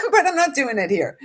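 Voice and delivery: high laugh breaking into the words. Real, not acted. To her viewers, holding back tears, laughing. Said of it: "And clearly we're not done".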